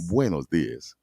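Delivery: "Buenos dias" said with heart, falling; with feeling. Shown as a demonstration. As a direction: really get into "Buenos dias". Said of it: "you gotta get into it".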